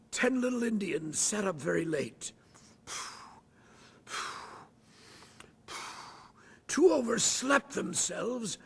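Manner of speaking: a hammed-up British accent, overslept drawn out slow; terrible British accent. A schoolboy actor reads the sign on stage, in a terrible British accent. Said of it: "I read it with this really terrible British accent".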